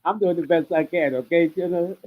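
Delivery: muffled underwater sound. Real, not acted. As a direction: voice through bad mic, underwater. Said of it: "now your voice sounds like you're underwater now".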